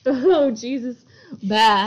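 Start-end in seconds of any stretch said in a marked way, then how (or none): 1.4-1.9 goat bleat. Retold or imitated. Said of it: "I sound more goat-like".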